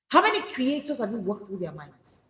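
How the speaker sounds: normal talking voice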